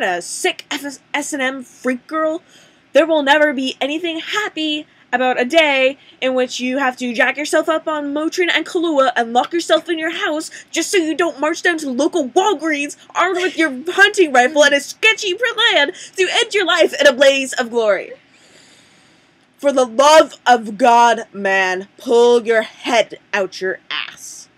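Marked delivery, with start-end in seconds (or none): 2.9-18.1 climbing higher and louder, breaking into a laugh at the end; building rant. Acted. To the brand manager, a rising tirade ending in a laugh. 19.6-24.5 loud and slow, every word punched out; exasperated yell. Acted. To the brand manager, a loud, slow, fed-up scolding.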